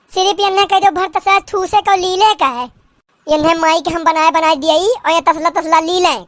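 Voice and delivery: put-on old village mother-in-law scolding in dialect; lightly voiced rustic saas, scolding; nagging mother-in-law.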